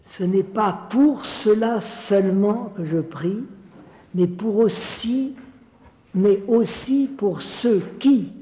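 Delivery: slow, measured scripture reading; scripture recitation. Acted. Preacher reciting Jesus's prayer for believers, slow and solemn. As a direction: recite it slowly, phrase by phrase, with pauses.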